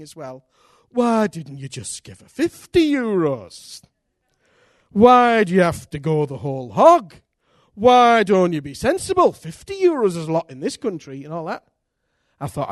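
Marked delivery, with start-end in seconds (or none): 0.9-11.2 louder, nagging inner voice. Retold or imitated. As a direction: scold yourself as the sensible flesh. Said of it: "the flesh was come, speaking".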